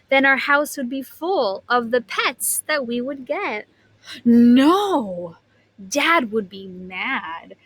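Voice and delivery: lively storybook reading voice; animated read-aloud for a class; reading to children. A narrator's reading. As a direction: read it like a picture book to kids.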